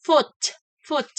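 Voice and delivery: foot with the F held and hissed on the lip; careful foot. Shown as a demonstration. Teacher models foot for the student, F held. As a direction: lean on the F of foot. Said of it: "Look at the N F sound in the word".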